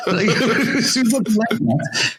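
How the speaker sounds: slow, laughing through a denial. Real, not acted. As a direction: giggle while protesting.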